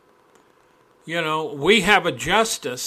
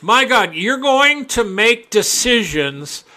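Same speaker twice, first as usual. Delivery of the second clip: indignant outburst; 3 semitones higher than usual. Real, not acted. Indignant preaching rant.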